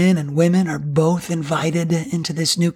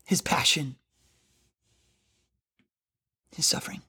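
whispered softly; hushed; 4 semitones lower, 8 dB quieter than usual. Real, not acted. Preacher naming Jesus' suffering in a reverent whisper.

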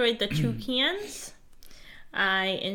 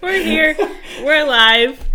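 hiccup giggles; 6 semitones higher, 11 dB louder, slower than usual. Real, not acted. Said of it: "I can't stop laughing".

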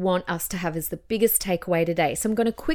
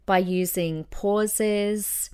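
"pauses" drawn out, then silence; slow down on "pauses" and stop dead; pause for effect; much slower than usual. Shown as a demonstration. Teacher showing how pauses vary a pattern, deliberate pause. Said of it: "like that".

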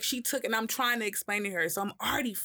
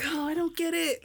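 much higher, baffled voice; imitating girlfriend; 10 semitones higher than usual. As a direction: mimic her bewildered reply. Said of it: "She was like".

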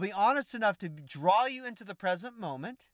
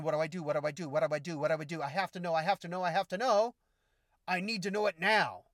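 imitating anxious person; faster than usual. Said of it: "So many people want to jump".

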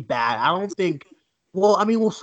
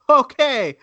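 high, loud dubious okay with a laugh; unconvinced, laughing it off; doubtful chuckle; skeptical; 3 semitones higher, 6 dB louder than usual. Retold or imitated. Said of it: "And I was just like".

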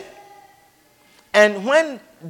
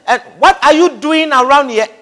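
mild demand; 5 semitones higher than usual. Retold or imitated. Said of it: "he demanded".

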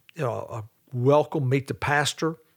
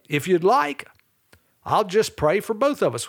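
"like" lifted with a rising tune, then a pause before the offer; gentle inflection; 4 semitones higher than usual. Shown as a demonstration. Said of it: "with a little inflection in my voice".

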